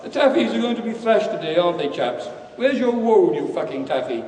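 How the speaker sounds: lightly hammed English public-school taunt; braying public schoolboy. Public schoolboy jeering at Dave in his scarf, mildly braying. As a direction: start each jeer high and loud, then let it fall. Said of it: "braying at Dave Dando".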